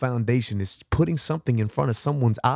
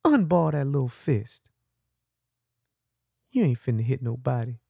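put-on bold child's voice; 3 semitones higher, 3 dB quieter than usual. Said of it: "she said boldly".

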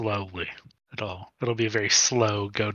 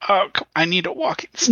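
tag; 8 semitones higher, 4 dB louder than usual. Pretend. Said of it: "pull a Gandalf style".

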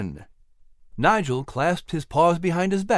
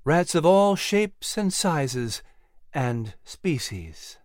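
a lightly voiced Clary, slow and ominous, trailing much softer; slow warning; 3 semitones higher, 3 dB quieter, slower than usual. Clary warns of more rats, slow and fading. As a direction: drag the words out like a grim warning. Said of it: "Clary warned".

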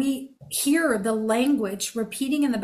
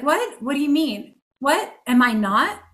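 put-on high, puzzled child asking what; a child's hurt confusion, voiced higher; confused child; 3 semitones higher, 4 dB louder than usual. Hurt child to parent: high confused questioning. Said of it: "right away it's like".

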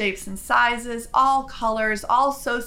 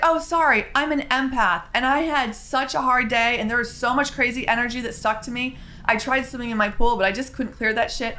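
chatty beach woman; 3 semitones higher than usual. Retold or imitated. Quoting the empath woman.

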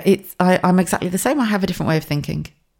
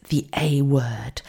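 hushed A word; 2 semitones lower, 6 dB quieter, much slower than usual. Retold or imitated. Mother mimicking how people whisper about autism, hushed. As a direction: whisper "the A word" as if it's taboo. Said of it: "people do that with the fingers".

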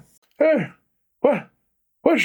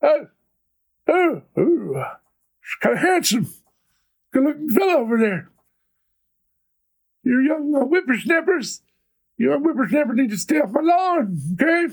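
put-on old man voice. Aged sixty years, old man voice.

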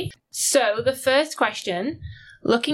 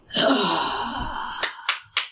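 lion roar. Pretend. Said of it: "Do you want to give us your best roar?".

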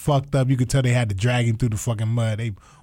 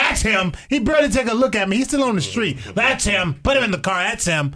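accusing witness, retold; 7 semitones higher than usual. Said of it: "the fucking crony guy".

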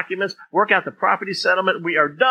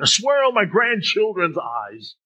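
drawn-out, higher vow; insistent oath; 4 semitones higher, slower than usual. Acted. Doubted person swearing on family, insistent. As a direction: swear it slowly, with heavy emphasis. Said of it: "I don't know if you're Italian".

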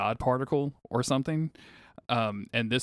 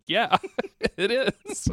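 higher, louder, laughing sarcastic yeah; mock sarcastic agreement; 12 semitones higher, 5 dB louder, much slower than usual. Sister teasing her for laughing, mock sarcastic. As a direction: play the sister's dry dig, pitched way up. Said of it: "She's like".

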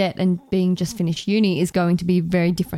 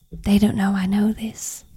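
put-on American accent; hushed American TikTok voice. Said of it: "That's my American accent".

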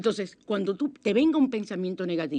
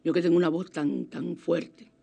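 husky voice; 3 semitones lower than usual. Real, not acted. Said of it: "Ahora esa voz oye sensual".

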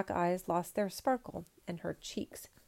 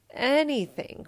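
higher, louder eager cry; 7 semitones higher, 7 dB louder, slower than usual. Acted. Emperor begs peasant to name his price, eager cry. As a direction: grab at any chance. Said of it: "cried the emperor".

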